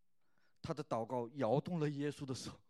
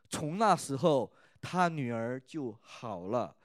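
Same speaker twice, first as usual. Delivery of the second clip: slow, loud, earnest reading of the passage; scripture reading; 3 dB louder than usual. Acted. Pastor reading scripture to youth service, earnest and loud. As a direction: read the Bible story to the congregation.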